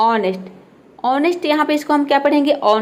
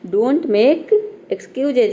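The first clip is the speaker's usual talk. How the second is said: "don't make excuses" drawn out very slowly, every syllable clear; slow example sentence; much slower than usual. Shown as a demonstration. Teacher slowly modelling "don't make excuses" as the phrase to say. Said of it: "हम उसे में बोलते हैं कि".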